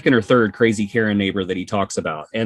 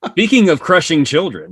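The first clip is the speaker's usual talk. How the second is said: laughing; 7 semitones higher, 5 dB louder than usual. Real, not acted. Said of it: "laughing while speaking".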